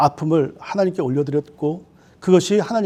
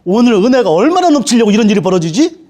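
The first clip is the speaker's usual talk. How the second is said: bright and louder, delighted wonder; mock overjoyed surprise; joyful faith; 3 semitones higher, 5 dB louder than usual. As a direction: believer marvelling at grace, louder. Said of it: "넘버 투는 뭐냐면".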